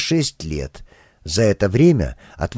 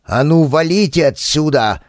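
ordering off; 4 semitones higher than usual. Acted. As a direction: drive them away with an order. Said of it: "приказал Михалыч".

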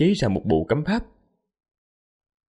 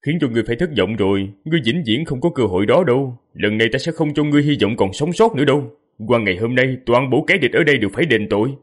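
cold; faster than usual. Acted. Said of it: "Diệp Phàm lạnh lùng nói".

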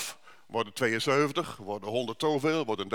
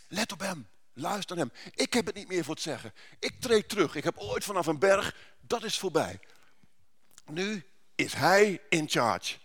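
lightly raised, declaring voice; voice of God; 4 semitones higher, 4 dB louder than usual. Acted. God telling the disciples to listen, declaring. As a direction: step back and hand him the stage. God's voice handing over authority.

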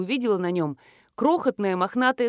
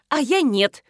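higher, sharp annoyed retort; cross; 6 semitones higher, 3 dB louder, slower than usual. A narrator's reading. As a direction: snap back at the greeting. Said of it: "сердито заявила Белкина". (сердито)

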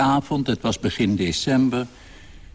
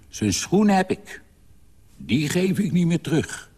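defiant father; 8 semitones higher than usual. A narrator's reading. Father's defiant boast in story.

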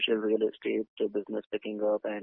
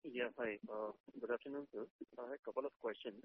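much softer, faint and far from the mic; barely audible; 18 dB quieter than usual. Real, not acted. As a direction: voice almost lost, very faint. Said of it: "your voice is very low".

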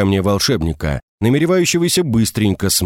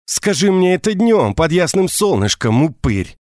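breathy hiss through teeth; 8 semitones higher than usual. Acted. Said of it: "оскалилась в клыкастой улыбке".

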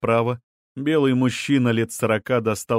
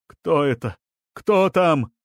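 alarmed shout rising higher; raised-voice challenge, building; 5 semitones higher, 3 dB louder, slower than usual. A narrator's reading. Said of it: "Мужчина кричал".

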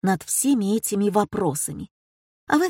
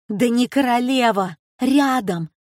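high, louder excited yell; 5 semitones higher, 3 dB louder than usual. A narrator's reading. Josephine yells for Gary, pointing at the screen, excited yelling. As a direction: call out to Gary in a rush. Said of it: "завопила Жозефина".

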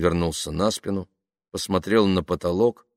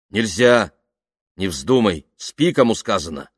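firm, louder exclamations; stern refusal; 3 semitones higher, 6 dB louder than usual. Acted. Man tells woman to sleep, stern refusal. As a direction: forbid it and order to bed.

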